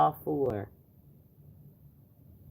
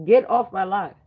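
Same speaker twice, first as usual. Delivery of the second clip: angry; 3 semitones higher, 8 dB louder than usual. Real, not acted. Shouting at a troll.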